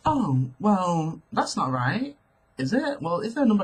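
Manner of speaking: soft, calm and collected self-quote. Retold or imitated. Customer querying the bus driver about change, calm and collected. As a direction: re-enact keeping your composure, softly. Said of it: "I was very calm and very like".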